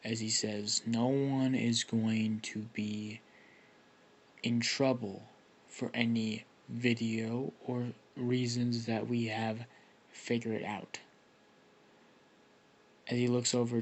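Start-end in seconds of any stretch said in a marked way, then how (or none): 0.9-11.0 slow, restrained teacher's near growl. Acted. Aizawa addresses the students about the video, slow near growl. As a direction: draw it out, almost growling. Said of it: "you can hear him almost growl".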